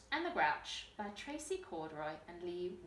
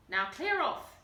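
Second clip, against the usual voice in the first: snarling troll; 3 semitones higher, 6 dB louder than usual. A narrator's reading. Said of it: "he snarled".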